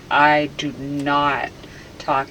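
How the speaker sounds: "I do not talk" slow, word by word; emphatic denial. Real, not acted. Subject denying their speech, "I do not talk" slow and emphatic. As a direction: space out "I do not talk" insistently. Subject insists, struggling to speak normally.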